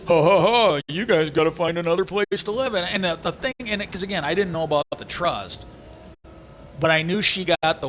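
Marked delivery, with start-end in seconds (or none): 0.1-2.7 loud mocking ha ha ha, then a smug brush-off; mocking laugh. Brother-in-law laughing at them about finding another place to live, loud and mocking. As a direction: gloat loudly at them.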